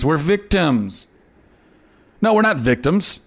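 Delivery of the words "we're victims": slow mock self-pity. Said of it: "and say".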